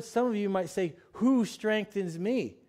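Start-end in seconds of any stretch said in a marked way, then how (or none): 1.1-2.6 the common misquote, "Who strengthens me?", unhurried; wrong word. Shown as a demonstration. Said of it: "I had to correct myself".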